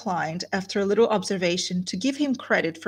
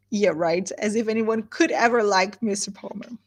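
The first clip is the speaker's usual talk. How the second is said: dry, mocking "yeah, right"; sarcastic aside. Real, not acted. Teacher mocking the idea anyone likes Mr Palmer. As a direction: roll your eyes through it. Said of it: "teacher's sarcastic aside".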